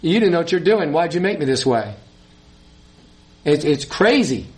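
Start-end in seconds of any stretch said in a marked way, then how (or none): 0.0-1.9 slightly raised, challenging creature talking back; a touch of indignant sass; mock defiant retort. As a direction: throw the question back at the maker. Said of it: "it turns around and says".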